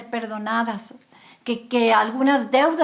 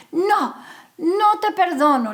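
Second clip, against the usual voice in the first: harsh refusal; 6 semitones higher, 4 dB louder than usual. A narrator's reading. Creditor refusing mercy.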